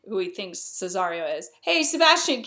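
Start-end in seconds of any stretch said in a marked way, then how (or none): 1.6-2.4 high-pitched mock hail; acted calling out. Antonio hailing the supposed Sebastian, high acted call. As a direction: call to a friend with raised pitch. The hail repeated after an aside.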